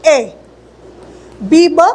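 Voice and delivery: ब said as a short clipped sound; letter B sounded as ब. Shown as a demonstration. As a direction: sound out ब like a teacher. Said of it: "इनके sound क्या होते हैं".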